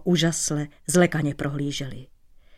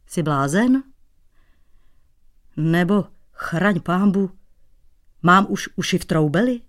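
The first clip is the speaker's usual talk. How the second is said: grumpy hoot. Acted. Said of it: "a houkl nevrle".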